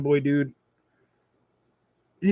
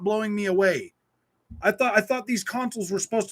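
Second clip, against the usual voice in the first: higher, louder exasperated complaining; venting frustration at the price; irritated rant; 4 semitones higher, 3 dB louder than usual. Real, not acted. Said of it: "I'm so freaking irritated".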